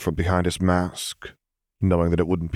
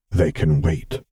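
softly spoken; slower than usual. A narrator's reading. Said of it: "he told the child softly".

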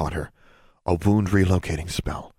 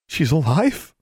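surprised; 9 semitones higher, slower than usual. Acted. Boy's disbelief.

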